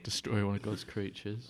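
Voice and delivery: slow mock-solemn whisper. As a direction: hush it like a eulogy. Mock mourning the whale.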